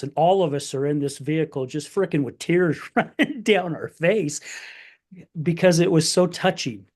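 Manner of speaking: fighting back tears while telling it; choked up. Real, not acted. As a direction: voice rising and tightening with tears. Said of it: "this is where I get emotional".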